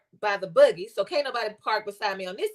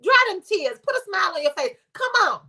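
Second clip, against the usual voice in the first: dismissive coaxing. Retold or imitated. To a crying girl, trying to stop tears, dismissive coaxing. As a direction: brush the worry aside, rising at the end. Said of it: "I'm trying to dismiss".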